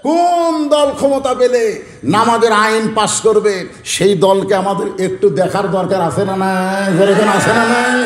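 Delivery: drawn-out preaching cadence; slow, sustained preacher's call; rousing sermon. Acted. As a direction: stretch the words out to rally a congregation. Rallies the congregation with a question.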